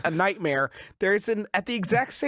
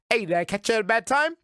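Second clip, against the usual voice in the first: lightly voiced, quick, slightly higher line read; imitating movie character; 3 semitones higher, faster than usual. Man walking up to Paul Blart to interrupt him, imitated. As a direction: mimic the intruder's casual quick question. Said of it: "he walks up to him, he says".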